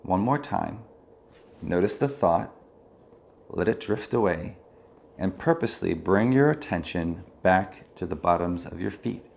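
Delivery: calm body-scan guidance with long pauses; measured mindfulness-teacher voice, leaving space between phrases; guided meditation. Real, not acted. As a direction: guide attention through the body, unhurried.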